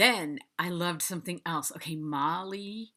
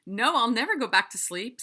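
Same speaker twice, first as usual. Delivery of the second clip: mock alarm; 5 semitones higher, 7 dB louder than usual. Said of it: "I'm like".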